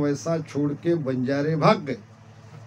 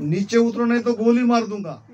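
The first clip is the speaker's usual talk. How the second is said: quick, high-pitched threat; acted threat; 5 semitones higher, faster than usual. Bandit chief to the man up the tree, threatening. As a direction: threaten him in a hurry, pitch raised.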